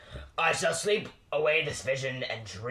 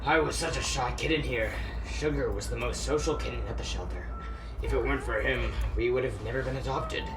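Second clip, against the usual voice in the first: quiet, sad; 3 semitones lower, 4 dB quieter than usual. Acted. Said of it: "made you suddenly quiet".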